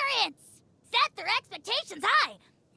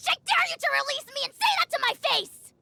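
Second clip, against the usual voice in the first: defiant challenge; 6 semitones higher, 3 dB louder, faster than usual. Acted. Dragon challenges him.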